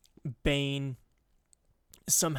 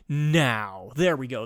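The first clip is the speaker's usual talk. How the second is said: lower, louder Sith declaration; deep villain voice; 7 dB louder, slower than usual. Acted. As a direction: redo it as a proper dark lord. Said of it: "That's better".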